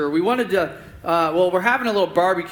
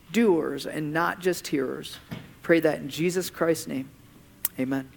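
prayer. Acted. Pastor closing the sermon in prayer, hushed and earnest.

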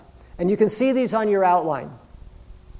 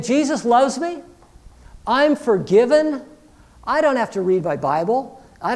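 higher, louder mock-carefree claim; mock complacency; 4 semitones higher, 3 dB louder than usual. Complacent believer excusing neglect of faith, mock carefree. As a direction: play the breezy, self-excusing believer.

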